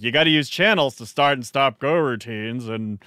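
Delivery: lightly voiced cranky old-timer grumbling; a hint of a back-in-my-day grump; grumpy old man voice. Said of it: "That's his grumpy old man voice".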